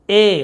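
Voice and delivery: ए held as a long 'ay'; ए as a lengthened, pure 'ay' sound; drawn-out vowel. Shown as a demonstration. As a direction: stretch ए out a little. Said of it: "थोड़ा लंबा खींचा वाला ए".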